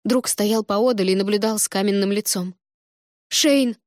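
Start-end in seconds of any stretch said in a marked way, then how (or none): 3.3-3.8 calling out. A narrator's reading. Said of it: "позвала я".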